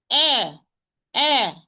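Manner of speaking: firm, separate "eh" with a glottal onset; hamza from the vocal cords. Shown as a demonstration. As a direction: start each "Eh" from the vocal cords. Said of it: "Pronounce the hamza from its place".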